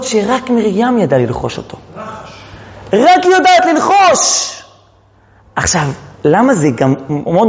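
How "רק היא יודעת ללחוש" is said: high, slow proclamation; emphatic cry. Real, not acted. Teacher to class on Miriam's secret, crying it out. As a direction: draw it out high and insistent.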